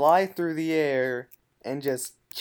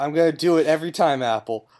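laughing; 7 dB louder, faster than usual. Real, not acted. GM laughing at the gross noise.

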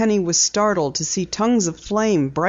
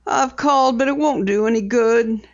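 farm woman voice; 4 semitones higher than usual. A narrator's reading. Distraught farm woman answering.

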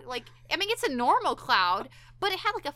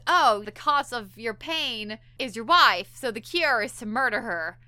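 smug evil doctor; 5 dB louder than usual. Retold or imitated. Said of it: "this evil, smug smile".

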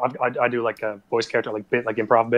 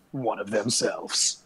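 low, slow trailer narrator; slow ominous movie trailer line; dramatic trailer voice; 5 semitones lower, 8 dB quieter, much slower than usual. Acted. Adds to mock movie trailer.

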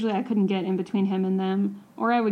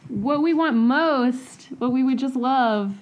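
slow, raised sign-off voice; show outro; 4 semitones higher, slower than usual. Real, not acted. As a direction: draw it out for the listeners. Hosts reciting show outro.

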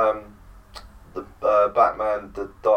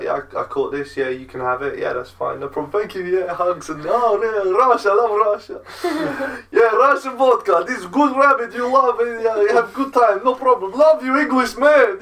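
put-on Russian accent; 12 semitones higher, 5 dB louder than usual. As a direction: play an excitable Russian, building higher and louder. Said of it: "It's a really good accent".

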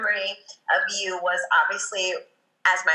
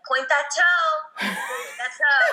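dance coach yelling; 7 semitones higher, slower than usual. Retold or imitated. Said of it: "you were like".

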